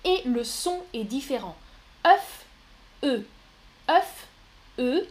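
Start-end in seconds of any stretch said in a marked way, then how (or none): 2.1-3.3 emphatic demo. Shown as a demonstration. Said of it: "on ne prononce pas le F". 3.9-5.1 emphatic demo. Shown as a demonstration. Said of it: "on ne prononce pas le F".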